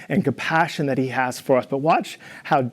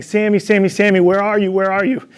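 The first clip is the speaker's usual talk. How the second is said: calling out; 5 semitones higher than usual. Retold or imitated. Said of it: "I ran around the house saying".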